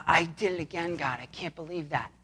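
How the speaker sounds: soft, low-key contrite prayer; acted confession. Believer on their knees before God, quietly confessing.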